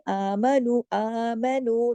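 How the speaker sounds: आमनु recited slowly with light vowels; all thin letters. Shown as a demonstration. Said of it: "तमाम बारीक हरूफ है". (आमनु, तमाम हरूफ बारीक)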